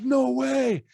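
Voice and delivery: high-pitched imitation of an amazed girl; retold freaking out. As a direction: mimic a kid's drawn-out disbelief. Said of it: "like, freaking out".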